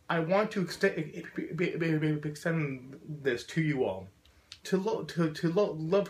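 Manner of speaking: real block with repeated first syllable; stuttering. Real, not acted. Speaker closing a speech to you all, stuttering. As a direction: stick on the syllable, then release the phrase. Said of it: "as someone with a very profound stutter".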